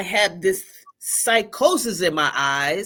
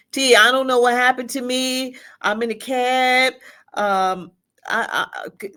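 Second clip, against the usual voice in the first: frightened call; 5 semitones higher, 3 dB louder than usual. Retold or imitated. Panicked call to her sister.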